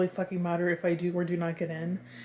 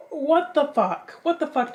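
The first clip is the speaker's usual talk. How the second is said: shocked disbelief; 7 semitones higher, 5 dB louder than usual. Retold or imitated. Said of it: "And I was like".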